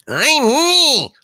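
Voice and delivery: very high mock-girlish cry; falsetto Juliet. Sidekick as Juliet on balcony, falsetto.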